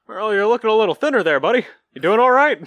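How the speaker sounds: mock concern. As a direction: ask brightly like a worried buddy.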